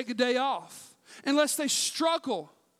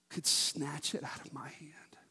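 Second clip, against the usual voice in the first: hushed whisper, slowing at the end; 9 semitones lower, 10 dB quieter than usual. Acted. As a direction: let the point land in a whisper. Hushed climax of anecdote.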